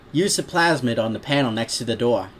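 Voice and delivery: lightly put-on Brooklyn-style accent; cartoon city accent, matter-of-fact; Joey Wheeler. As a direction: instruct in a cartoon New York accent. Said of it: "just going with the Joey Wheeler voice".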